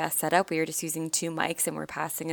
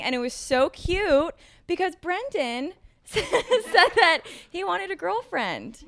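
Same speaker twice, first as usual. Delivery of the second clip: higher, giggling over how cute it is; laughing gush; 10 semitones higher, slower than usual. Real, not acted. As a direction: laugh through it, delighted. Gushing over friend wanting girlfriend.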